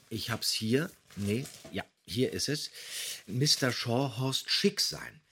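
ordinary talk, nothing marked

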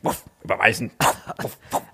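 soft dog voice with a woof; pet voice. Retold or imitated. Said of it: "Was sagt der Hund?".

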